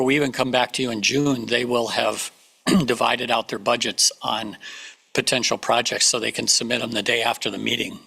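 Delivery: losing her voice to a cold; hoarse, voice giving out. Real, not acted. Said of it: "I'm getting over a cold and I keep losing my voice".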